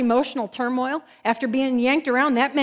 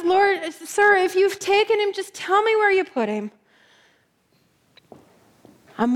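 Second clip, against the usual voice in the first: desperate pleading. Acted. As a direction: beg until the strength runs out. Mary begs the supposed gardener.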